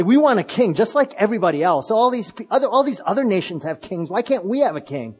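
mock the people clamouring for a king; imitated demand. People to Samuel, wanting a king like other nations, imitated demand.

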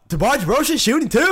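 announcer asking, with "two?" left open; questioning announcer. Retold or imitated. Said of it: "Fråga liksom".

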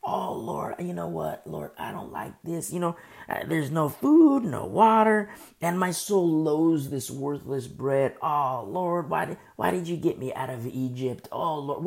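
mock grumbling prayer; murmuring and complaining. Believer complains to the Lord about hardship, mock murmuring. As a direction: grumble at God in drawn-out protest. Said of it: "More murmuring and complaining".

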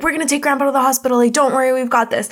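hurried reassurance. Retold or imitated. Friends hurriedly reassure Yugi.

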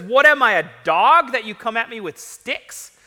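loud, affronted disbelief, punched early then easing; incredulous Goliath. Acted. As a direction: hurl the question like an insult taken. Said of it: "can't believe this".

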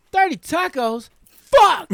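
exasperated outburst. Retold or imitated. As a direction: blurt it like a cook hearing the order. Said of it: "I heard this dude in the background".

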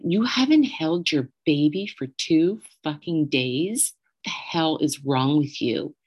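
slow, emphatic retold scolding; imitated incensed friend. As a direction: scold her in disbelief, as the friend did.

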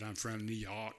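put-on amateur New York accent; attempted New York accent. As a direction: try New York vowels, unsure. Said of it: "I don't even know how to say New York".

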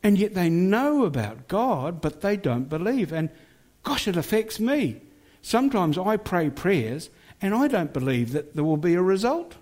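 lightly voiced young woman's words; voicing the young woman. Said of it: "And she said".

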